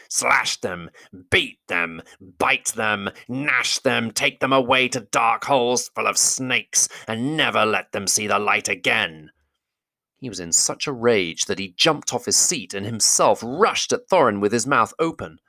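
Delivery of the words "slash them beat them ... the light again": raging goblin king. Acted. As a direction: shout orders like an enraged goblin. Great goblin orders attack.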